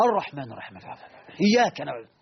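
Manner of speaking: swinging volume in recitation; dropping then raising the voice. Retold or imitated. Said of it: "يوطي صوته ويرفع صوته شوية".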